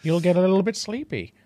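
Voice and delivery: a hint of Kermit reading a bedtime story, with mm-hmms between lines; mild Kermit read to lull the listener to sleep; Kermit the Frog impression. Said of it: "I know this style of speaking".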